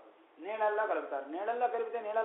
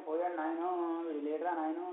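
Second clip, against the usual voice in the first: imitated wailing. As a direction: draw out a half-hearted funeral lament. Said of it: "అని ఏడిస్తే ప్రయోజనం ఏంటి". (ఉత్తుత్తి శోకం, సాగదీస్తూ)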